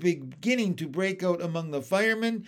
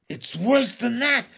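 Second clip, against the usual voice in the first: raised, louder voice of alarm; 7 semitones higher, 6 dB louder than usual. A narrator's reading. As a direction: top the last man's panic. Police chief panicking at the creature.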